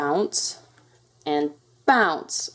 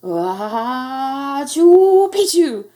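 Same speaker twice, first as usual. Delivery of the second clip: long rising "ah" bursting into a loud sneeze; half sneeze, half speak it; huge high-pitched acted sneeze; mock sneeze; 6 semitones higher, 9 dB louder, much slower than usual. A narrator's reading. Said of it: "half sneezed, half spoke the secret password".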